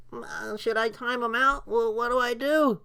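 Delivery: high, dithering, helpless voice; mocking clueless mods. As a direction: play a panicking, clueless moderator. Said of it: "The mods were like".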